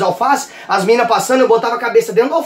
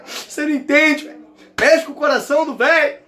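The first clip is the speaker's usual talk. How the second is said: sentimental father; 4 semitones higher than usual. Retold or imitated. Father answers the mother.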